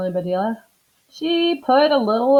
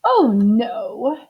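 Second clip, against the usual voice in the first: tearful protest; pleading Mrs Rogers; 2 semitones higher, 5 dB louder than usual. Acted. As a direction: beg her not to go. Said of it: "said Missus Rogers".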